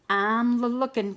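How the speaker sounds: slow, nervous stammer on l-lookin'. Acted. Scared Cow eyeing Wolf's house, nervous stammer. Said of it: "Cow stammered".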